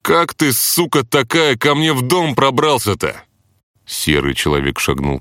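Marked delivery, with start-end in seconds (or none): 0.0-3.2 high rude mocking jab; cheeky taunt. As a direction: provoke the boss cheekily. Hero taunting the boss.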